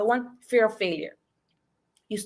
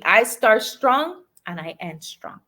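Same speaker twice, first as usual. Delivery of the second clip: slow and a bit louder, leading the crowd; slow rallying affirmation; 4 dB louder, slower than usual. Shown as a demonstration. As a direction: say it with them, firmly. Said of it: "Come on, say it with me".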